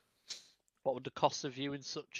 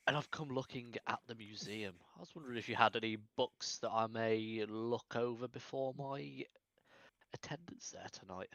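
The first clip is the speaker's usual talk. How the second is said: posh voice. Acted. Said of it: "Putting on quite a little posh little voice".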